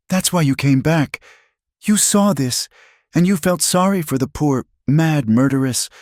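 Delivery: high-pitched, wounded outrage; bitter accusation. A narrator's reading. Betrayed woman accusing the man who came back, bitterly.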